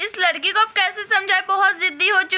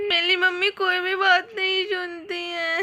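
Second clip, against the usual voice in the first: tearful sulk; 5 dB quieter than usual. Acted. Girl starts crying, mother says.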